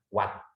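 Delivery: "what" with an open a, like "wat"; "what" with a full Indonesian a; mispronounced vowel. Shown as a demonstration. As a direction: say "what" as "waat". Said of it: "bukan what".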